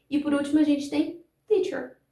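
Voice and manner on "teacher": "teacher" with a firm T at the start; crisp opening T in "teacher"; true initial T. Shown as a demonstration. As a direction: model "teacher" with a full stop T. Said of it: "Eu não poderia falar teacher".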